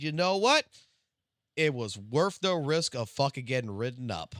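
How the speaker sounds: a boss caving with a burst of delight; amused boss. Retold or imitated. Boss letting the hungry worker off, imitated high and loud. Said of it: "And I said".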